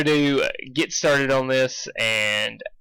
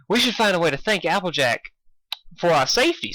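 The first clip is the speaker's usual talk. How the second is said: mayor voice; 6 semitones higher than usual. Acted.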